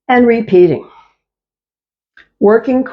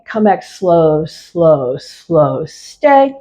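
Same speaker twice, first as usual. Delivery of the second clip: slow motion; 3 semitones lower, slower than usual. Shown as a demonstration. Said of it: "as slowly as you can and stay".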